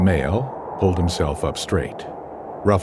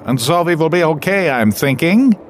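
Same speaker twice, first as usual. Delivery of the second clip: higher, offhand laid-back voice; shrugging, casual; 12 semitones higher, 6 dB louder than usual. Acted. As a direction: toss it off with a shrug. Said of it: "shrugged Neumann".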